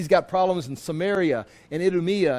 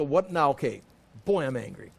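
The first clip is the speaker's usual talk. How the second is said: flat, much lower and softer, no heat in it; deadpan angry; 4 semitones lower, 4 dB quieter than usual. Pretend. Preacher mocks anger said with no tone, flat deadpan. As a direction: say you're angry with no anger at all. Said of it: "it wouldn't be nice if someone's angry like that".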